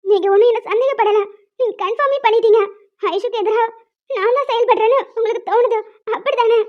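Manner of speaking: hurt, tearful accusation. Acted. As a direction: accuse him through tears. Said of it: "இப்ப எதுக்கு அழுகுற?". (அழுகையோடு குற்றம்சாட்டுதல்)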